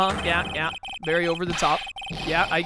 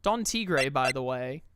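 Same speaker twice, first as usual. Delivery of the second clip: creepy low voice; 4 semitones lower than usual. Acted. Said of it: "Ah, that voice".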